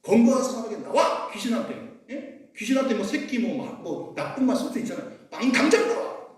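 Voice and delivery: lightly voiced exorcist's rebuke; rebuking a demon. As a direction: cast the demon out, half acted. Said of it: "사탄 마귀를 쫓을 때 꾸짖었어요".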